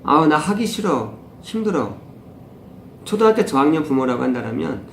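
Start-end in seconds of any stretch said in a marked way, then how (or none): 0.0-2.0 put-on drawn-out, higher sulky child voice, slow; whiny child. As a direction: mimic a tired kid refusing homework. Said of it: "아이가". (하기 싫다고 칭얼대는 아이 흉내)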